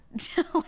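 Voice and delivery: short, high burst of laughter; amused laugh. Real, not acted. Laughing about how she talks, amused laugh. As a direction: let out a quick high laugh. Amused by her own remark.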